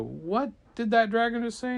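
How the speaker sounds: high-pitched amazed question; astonished onlooker; incredulous. Acted. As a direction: gasp it out in mock disbelief. Villagers astonished.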